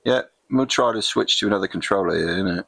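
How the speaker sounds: light put-on English voice ending in innit; casual Brit gamer aside; mock English accent. Gamer fiddling with controller in a light mock English accent. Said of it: "Can't get out of my Soccer Kid affectation".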